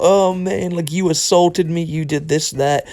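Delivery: hammed-up whimpering complaint; mock crying complaint. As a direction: imitate him whining about being hurt. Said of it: "who was crying about".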